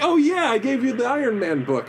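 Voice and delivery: high, animated quoted voice; imitated happy recognition. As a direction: act out suddenly remembering someone. Voices Bendis recognizing him.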